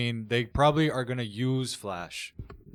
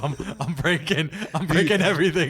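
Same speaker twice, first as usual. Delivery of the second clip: laughing; 4 semitones higher, 4 dB louder than usual. Real, not acted. Laughing taunt.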